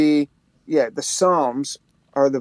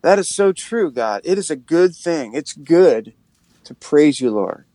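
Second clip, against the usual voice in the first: prayer; 3 semitones lower than usual. Shown as a demonstration. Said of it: "from reading the scripture to like".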